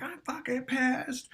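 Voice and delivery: slow, high mock fury; hammed-up retold rage; mock angry yell. Retelling his fight with girlfriend, mock yell. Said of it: "I kept screaming louder and louder".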